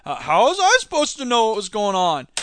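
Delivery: whiny mock CEO excuse; mock clueless CEO. Mocking Murdoch's excuse, whiny innocent tone. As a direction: play the innocent boss. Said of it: "that same thing of like".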